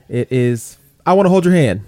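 a lightly put-on, hammed-up English accent on the song title; bad English accent. Host hamming up an English accent for a band's song title. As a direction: announce the song title in a mock British accent. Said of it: "my horrible English accent".

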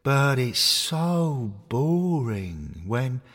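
slow, yawning bear voice; sleepy bear. Acted. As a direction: speak through a big yawn. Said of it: "Biscuit Bear yawned and said".

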